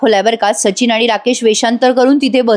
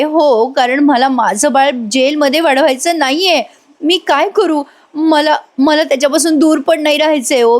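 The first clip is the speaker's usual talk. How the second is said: higher pitched tearful begging, breaking into a sob; retold crying plea; 4 semitones higher than usual. Mother begging her husband not to take the baby, tearful. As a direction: plead like a desperate mother half in tears. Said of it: "असं ती रडते".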